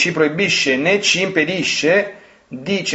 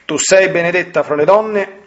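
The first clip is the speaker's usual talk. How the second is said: prayer; 2 semitones higher than usual. Acted. Leads a Hail Mary prayer.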